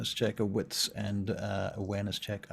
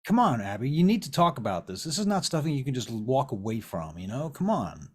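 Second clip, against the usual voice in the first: louder, higher, pressing appeal; insistent pleading; 4 semitones higher, 6 dB louder than usual. Acted. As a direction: pressure someone who is walking away. Vern pressures Abby to talk.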